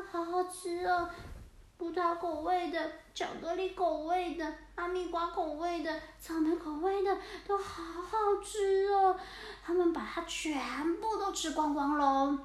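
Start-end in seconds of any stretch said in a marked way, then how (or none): 0.1-9.2 lightly raised, delighted kitty voice; happy cats eating. Acted. Wild cats savouring stolen ice cream, delighted. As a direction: savour each flavour like a greedy little cat.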